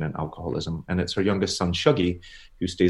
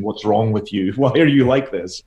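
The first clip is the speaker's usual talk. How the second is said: blunt Glaswegian; 3 semitones higher, 5 dB louder than usual. Retold or imitated. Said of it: "a very Glaswegian blunt way of saying".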